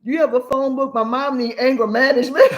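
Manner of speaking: put-on high, laughing kid's voice; child's complaint. Mother voicing son asking Devin about anger management, laughing. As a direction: play the boy complaining about his mom. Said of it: "Devin said".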